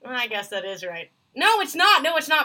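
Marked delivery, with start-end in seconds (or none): 1.3-2.4 higher, louder flat-out contradiction; insistent objection. Real, not acted. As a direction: jump back in to object firmly. Takes back concession in playful argument.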